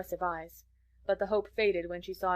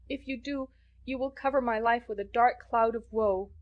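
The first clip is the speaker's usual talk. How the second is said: put-on higher, earnest girl begging forgiveness; pleading girl; 4 semitones higher than usual. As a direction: plead like a desperate orphan girl. Anne pleading with Mrs Barry.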